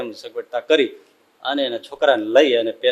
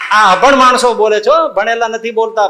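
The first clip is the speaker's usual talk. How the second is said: higher and louder, pointed; preacher's raised, pointed aside; emphatic aside; 7 semitones higher, 5 dB louder than usual. Real, not acted. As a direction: stress that the unlettered said this. Preacher stressing the uneducated spoke.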